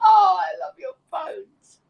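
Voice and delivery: high, squealed through laughter; real delighted laugh running into the words; laughing affection. Real, not acted. Thanking the person who told the joke, laughing affection. Overjoyed reaction after hearing the joke.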